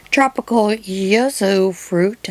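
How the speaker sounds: "yuzu" said slowly and carefully as "you-zoo"; careful pronunciation. Shown as a demonstration. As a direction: spell out "yuzu" slowly, a little unsure. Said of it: "I think that's how you pronounce it".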